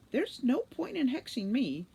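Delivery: high, frightened squeal; squealing sprite. A narrator's reading. Sprite squeals at the angry gremlins. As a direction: squeal it out, cornered and scared. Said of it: "squealed the sprite".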